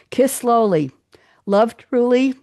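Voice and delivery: cheerleading the listeners; rousing. Acted. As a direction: build the maxims up with energy. Rousing closing maxims.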